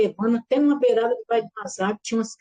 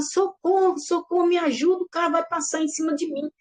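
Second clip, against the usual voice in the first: retold cry for help; 6 semitones higher than usual. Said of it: "eu gritava".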